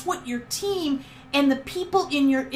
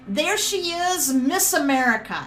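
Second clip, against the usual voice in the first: boisterous; 2 semitones higher than usual. Retold or imitated. Grandpa greeting his grandchild on entering the room, mock boisterous. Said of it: "in a very boisterous voice".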